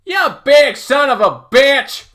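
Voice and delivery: high, loud, drawn-out cursing; slow, full-force angry yell; furious attacker's shout. Acted. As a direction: shout the curse as you swing. Attacker curses while striking narrator.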